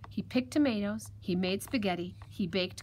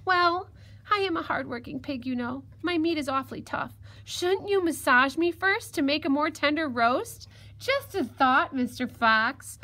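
high, louder little piglet voice; crafty piglet, coaxing; 6 semitones higher, 4 dB louder than usual. Acted. Piglet talks the fox into a bath, coaxing. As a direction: suggest it innocently in a high piglet voice.

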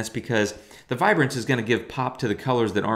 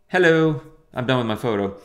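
mock excited hello; 2 semitones higher, 3 dB louder than usual. Greeting the finished edit.

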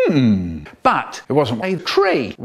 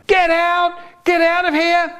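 much higher, loud frantic yell; roaring warning; 3 dB louder than usual. Acted. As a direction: roar at everyone to run. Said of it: "we're both going".

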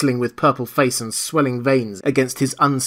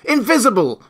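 much higher, louder cries; excited cries; 10 semitones higher, 6 dB louder than usual. Acted. Villagers crying out, high excited shouts. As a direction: call out in a panic. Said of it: "excited cries of".

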